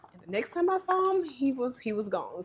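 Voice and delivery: on the verge of tears, fading away; choked up. Real, not acted. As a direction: start high and tearful, drop to a hush. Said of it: "I'm about to start crying".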